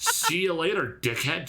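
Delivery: slow, high, sarcastic see-you-later; a syrupy goodbye that turns into an insult; mock sweet farewell. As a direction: drag it out with fake friendliness. Mocking send-off continues.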